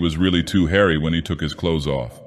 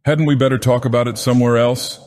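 stammered; 5 semitones higher than usual. Acted. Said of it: "he stammered".

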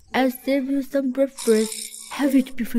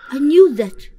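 embarrassed yelling; 2 semitones higher, 4 dB louder than usual. Acted. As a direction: yell it flustered.

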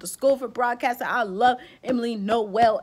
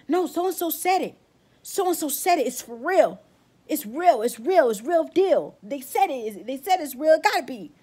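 gullible follower; 3 semitones higher than usual. Retold or imitated. Voices a gullible follower insisting.

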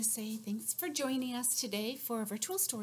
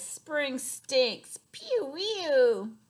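mildly louder, grossed-out grumble; a hint of a grumpy bear; grumpy bear complaining about the smell; a touch of disgust; 4 semitones higher, 7 dB louder, much slower than usual. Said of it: "Bruce says".

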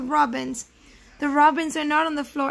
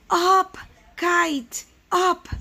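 higher, louder storybook shout; spaced, excited calls in a raised pitch; 6 semitones higher, 4 dB louder, much slower than usual. Acted. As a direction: call the kite upward, one word at a time. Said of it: "He shouted".

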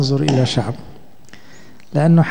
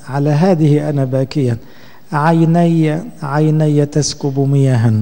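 scripture recitation; slower than usual. Acted. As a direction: lament it as holy text. Recites the full passage.

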